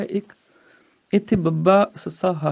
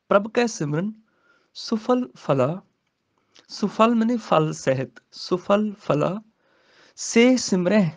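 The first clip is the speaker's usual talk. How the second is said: slow scripture recitation; 2 semitones higher than usual. Shown as a demonstration. Teacher recites the verse for students, slowly. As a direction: chant the verse slowly, rising.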